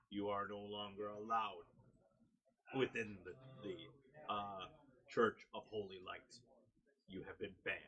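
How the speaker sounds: measured, lightly voiced stern guard; stern deep voice. Guard banning someone from the church, mildly stern. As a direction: pronounce the ban firmly, with pauses between phrases. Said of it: "speaks very strongly and sternly, in a deep, deep voice".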